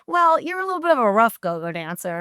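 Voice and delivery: breaking it to her, as quoted; lightly imitated crew member stating it; retold explanation. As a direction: voice the crew's matter-of-fact explanation. Crew's explanation, later echoed back.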